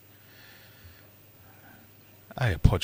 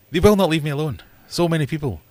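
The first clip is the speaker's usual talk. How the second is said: loud and higher, fed up; a loud cry of despair at being hounded; higher, louder exasperated complaint; exasperated outburst; 9 semitones higher, 7 dB louder than usual. Real, not acted. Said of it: "exasperated about pushy reps".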